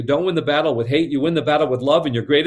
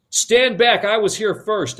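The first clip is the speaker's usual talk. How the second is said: put-on bossy boy; 5 semitones higher, slower than usual. Teddy challenges Nancy on the bridge.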